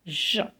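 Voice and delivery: J said as French "zhuh"; soft G sound. Shown as a demonstration. Teacher showing G before E and I, J as "zhuh". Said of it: "it will be pronounced as".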